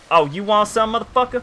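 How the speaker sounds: high ghetto-country taunt; rising trash-talk challenge, ghetto-country accent. Acted. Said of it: "halfway between ghetto and country".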